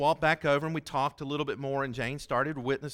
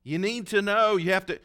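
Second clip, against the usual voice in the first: emphatic insistence; 6 semitones higher, 6 dB louder than usual. Retold or imitated. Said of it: "she said".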